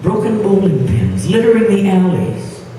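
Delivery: measured poem reading with deliberate pauses; poetry recitation. Acted. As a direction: recite it phrase by phrase, lingering on key words. Poet recites her poem.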